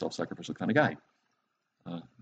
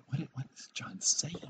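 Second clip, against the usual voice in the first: higher, hushed puzzled reader; mock bafflement; 6 semitones higher, 10 dB quieter than usual. Reader puzzling over First John chapter five, mock baffled. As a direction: play it baffled, soft and high.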